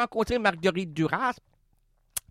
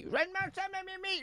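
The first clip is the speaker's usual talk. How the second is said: put-on boyish voice; 9 semitones higher, 9 dB quieter, faster than usual. Boy asking granny.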